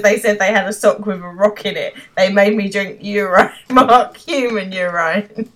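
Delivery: mock outrage through laughter; aggrieved complaint. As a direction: complain in disbelief, stressing the last words. Acted kidnap victim's complaint.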